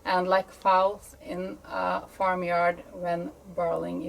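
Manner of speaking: "fowls" said clearly with an ow sound, like owls, not "fools"; careful retake with "fowls" rhyming with owls; corrected retake. Shown as a demonstration. Reader retakes the line after the director's correction, saying "fowls" carefully. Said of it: "okay, once again".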